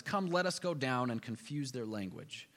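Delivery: low, slow and grave; a low solemn divine pronouncement; solemn voice of God. Retold or imitated. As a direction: read it as God's decree, low and deliberate. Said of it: "God says".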